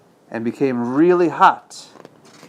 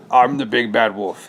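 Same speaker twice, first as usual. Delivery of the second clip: mild howl. Acted. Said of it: "he howled".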